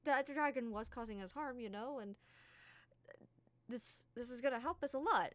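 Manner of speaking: calm her down, it's fine; reassuring James. Acted. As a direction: James reaching out to calm Key. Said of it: "he's just like".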